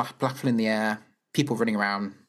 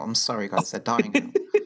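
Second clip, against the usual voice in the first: laughing; 5 semitones lower than usual. Real, not acted. Joking about listeners' names.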